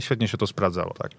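ordinary talk, nothing marked

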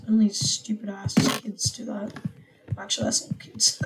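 whispered snarky aside; breathy whisper with a laugh. Real, not acted.

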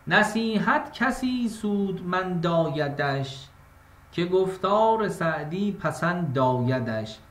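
slow, measured verse reading; poetic recitation. Shown as a demonstration. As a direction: draw out each line like classical poetry. Recites Saadi verse slowly.

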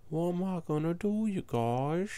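a lightly changed, sing-song silly voice; odd put-on voice. Real, not acted. Player asking his viewers for help, silly put-on voice. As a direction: ask the viewers in a funny voice. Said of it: "Why am I talking like that?".

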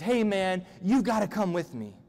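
slightly high, pushy appeal; buddy-like urging. Acted. King talks Jehoshaphat into war, urging him like a buddy. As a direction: coax a pal to join in. King urges his ally along.

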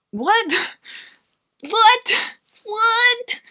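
climbing squeak of total confusion; repeated what. Retold or imitated. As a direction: escalate your disbelief with each "What?". Retold repeated baffled reaction.

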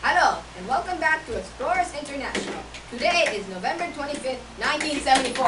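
put-on Indian-accent host, projecting; practised Indian accent. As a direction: present the show intro in an Indian accent. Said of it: "I have to practice my accent".

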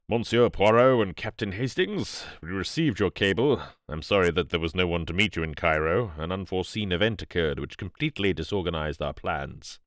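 lightly voiced formal greeter, sobering as he goes; grave British expert. Archaeologist welcomes Poirot with bad news, gravely formal. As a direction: greet them formally, then turn mildly grave.

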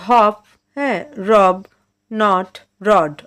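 হপ, রব, নট, রড with a short open অ sound; slow teacher demo of the open অ in হপ, রব. Shown as a demonstration. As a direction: say হপ like হ-অপ, clipped and open. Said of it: "আমি আরেকবার বলছি".

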